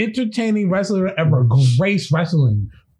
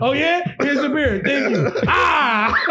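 Stone Cold impression; 4 semitones higher, slower than usual. Acting out Stone Cold's beer bit.

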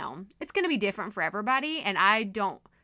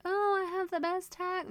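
mock braggy; 10 semitones higher, 3 dB quieter than usual. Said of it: "I'm not trying to be, like, braggy".

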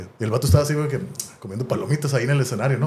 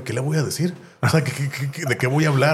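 nervous inner thought; 3 semitones higher than usual. Retold or imitated. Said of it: "cada vez que me metía a bañar pensaba".

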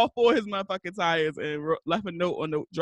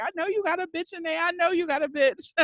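pitched-up, rapid retold yell at half volume; mock yell; 9 semitones higher than usual. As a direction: imitate an angry woman yelling from outside. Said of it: "she's yelling all this shit like".

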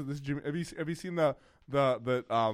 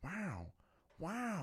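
much softer, drawn wow; Owen Wilson wow; 6 semitones higher, 10 dB quieter than usual. Retold or imitated. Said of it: "the classic".

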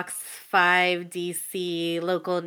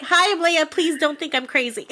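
nervous fangirl; 6 semitones higher than usual. Retold or imitated. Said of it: "I'm like".

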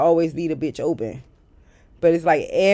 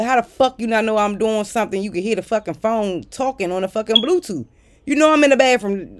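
higher-pitched, exasperated comeback; indignant retort; 4 semitones higher than usual. Retold or imitated. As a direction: fire back in disbelief, voice climbing. Acted retort to whoever walked in.

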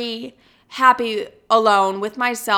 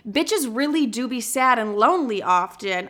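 weird sassy drawl. Real, not acted. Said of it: "why the fuck I just said it like that".

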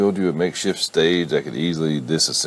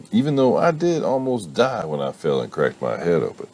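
mock aggrieved; 5 semitones higher than usual. Son milks his injury.

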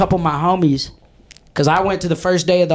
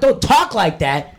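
slow, sneering parrot of the teacher; mocking echo; 2 semitones higher, slower than usual. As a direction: throw "talk" back at her in mockery. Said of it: "I'm like".

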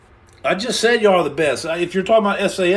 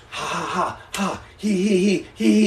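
mock chant of ha-ha and he-he; hammed-up pumped-up ha-has and hee-hees; giddy laughing noises; 4 dB quieter than usual. Streamer acting out his Sunday hype, giddy mock laughter. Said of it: "been like this".

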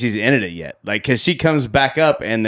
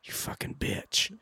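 breathy laughing aside, slowed; soft amused curse, half laughed; laughing whisper; 15 dB quieter than usual. Retold or imitated. Mock insult while laughing.

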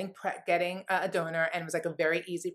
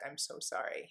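soft sorry; 3 semitones lower, 10 dB quieter than usual. Retold or imitated. Doctor breaks sad news.

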